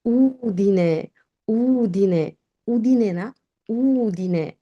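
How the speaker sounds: উদিনে said slowly as OO-dee-neh; উদিনে drawn out, stress on the first syllable; উদিনে in careful Italian; correct Italian Udine. Shown as a demonstration.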